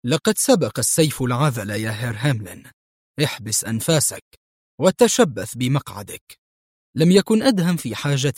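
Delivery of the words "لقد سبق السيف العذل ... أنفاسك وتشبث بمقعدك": cool as ice before the jump; astonishing calm. Acted. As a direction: hero calmly tells his passenger to hold on. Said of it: "قائلا في هدوء مذهل".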